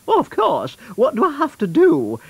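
high-pitched, keen cartoon cow; eager cow. Blue Cow offers to help the magician, eager cow voice. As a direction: agree eagerly in a high creature voice.

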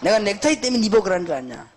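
mock indignant rant, dropping away on the final insult; retold scolding. Pastor rebukes the church member over neckties, mock scolding. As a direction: imitate a cursing pastor, mildly heated. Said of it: "강나서 욕을 하는데요".

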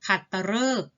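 ขัตฤกษ์ with ฤ said "roe". Shown as a demonstration. Teacher models for pupils, ขัตฤกษ์ with "roe" for ฤ. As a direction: say ขัตฤกษ์ as khat-ta-roek. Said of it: "ตัวรึ ออกเสียง".

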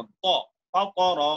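ফাতারা with a rounded "to" in the middle; "to" sound, not "ta". Shown as a demonstration. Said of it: "তা হবে না উচ্চারণ".

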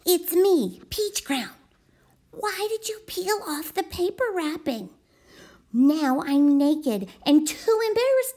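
embarrassed peach crayon. Acted. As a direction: plead for clothes in a fluster.

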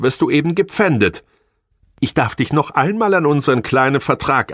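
high, contemptuous scolding woman; scornful wife. Acted. Angry wife berating her failing husband, high and scornful. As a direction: lash him with every reproach.

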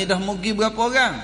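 lightly acted onlooker's query; imitating questioning passer-by. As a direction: ask briskly as a curious stranger. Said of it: "Orang tanya".

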